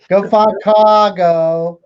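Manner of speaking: put-on slow, drawn-out Boston accent. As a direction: lean hard into a Boston accent. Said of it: "I can't even do that Boston accent".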